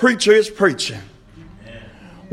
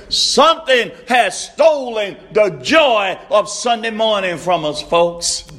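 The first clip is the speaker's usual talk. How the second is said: preaching shout; 2 semitones higher than usual. Real, not acted. Preacher's refrain at full force.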